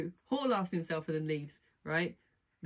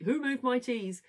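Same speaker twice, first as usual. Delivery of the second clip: higher-pitched indignant outcry; mock outcry; 7 semitones higher, 4 dB louder, slower than usual. Little guy who has lost all his cheese, mock outcry. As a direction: cry out in mock dismay.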